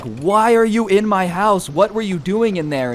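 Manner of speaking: high-pitched mock-indignant questioning; imitated outrage, pitch jumping up; angry demand. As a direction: play the homeowner demanding answers. Acted homeowner confronting the intruder.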